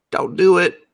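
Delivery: loud, high anguished plea; mock plea. Viewer pleading with the screen, loud mock anguish. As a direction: beg loudly, hammed-up. Pleading with character during an episode.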